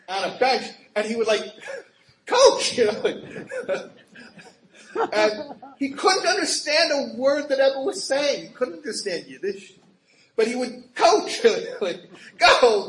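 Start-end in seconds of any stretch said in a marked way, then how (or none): 2.3-2.8 high, loud shout of one word; calling out. Retold or imitated. Coach calling out from bench. 12.4-12.9 cheering. Retold or imitated. Coach cheering the crowd.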